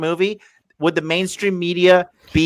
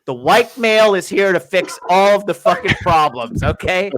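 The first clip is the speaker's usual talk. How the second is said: mock Luke Skywalker; 4 semitones higher than usual. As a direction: play the smug hero arriving to fix everything. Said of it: "And he's like".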